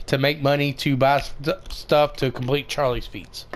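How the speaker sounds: talking around a cough drop; words round a lozenge in the mouth; mouth full. Real, not acted. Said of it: "I had a cough drop in my mouth".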